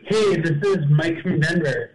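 distant tinny phone sound; on speakerphone. Real, not acted. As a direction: voice through a speakerphone. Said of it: "You on a speakerphone there, Mike?".

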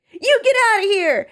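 put-on high, loud sobbing child; sobbing yell. Reading Bart sobbing at Jory, high and loud. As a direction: cry it out like a hurt boy. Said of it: "he sobbed".

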